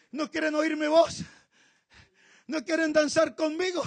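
soft, hushed lament; sad God. Acted. God sad his people refuse him, hushed and sorrowful. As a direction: grieve quietly that they won't come near. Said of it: "Y Dios se puso triste".

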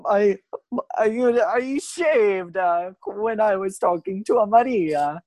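slow, stammering panic over a lie; flustered stammer. Acted. Fernando caught without his mustache, stammering slowly. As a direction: stall for time, caught out.

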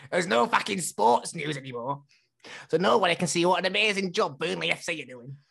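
a lightly voiced laddish Burnley fan, swearing and laughing; rowdy pub rant, ramping up with laughs; Sean impression. Friend imitates Sean ranting about Burnley, a light laddish rant. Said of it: "do my Sean impression for Sean".

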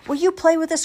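high, loud pleading squeak; squeaky baby crocodile. A narrator's reading. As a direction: ask in a tiny crocodile's squeal. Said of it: "squeaks another".

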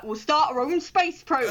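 lightly attempted, bad Scottish accent; terrible Scottish accent. Scotland announcing its own space programme, in a terrible Scottish accent. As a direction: have a poor stab at a Scottish accent. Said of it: "that was a terrible Scottish accent".

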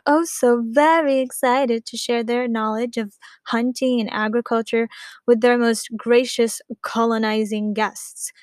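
mock the colonizers' version with irony; sarcastic. Mocking textbook's colonial view.

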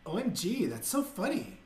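a hammed-up airy "O M G, that's so funny" with a bouncy pitch; mock valley girl. Imitating people who say OMG, a bubbly mock valley girl. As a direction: play a vapid girl gushing over a joke. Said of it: "When somebody says, like".

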